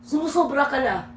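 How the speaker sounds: mild mock anger; half-hearted acted scolding; angry. Shown as a demonstration. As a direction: play disappointment that comes out slightly cross. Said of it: "Parang galit yun".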